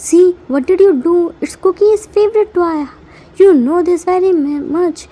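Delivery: loud, fast angry scolding. Acted. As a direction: tear into him for breaking the toy. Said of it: "He angrily shouts on Jimin".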